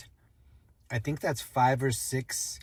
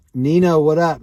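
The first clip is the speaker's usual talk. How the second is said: calling out; 4 semitones higher, 9 dB louder than usual. Real, not acted. Greeting a friend across shop.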